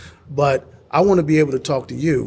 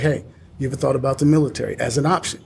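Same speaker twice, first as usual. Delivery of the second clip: recruiter voice; faster than usual. Retold or imitated. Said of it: "Sometimes I'll sound like a recruiter".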